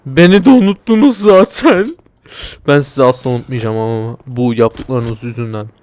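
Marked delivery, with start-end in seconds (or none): 0.1-2.0 high, loud put-on whine; mock hurt whine. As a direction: sulk like a forgotten kid.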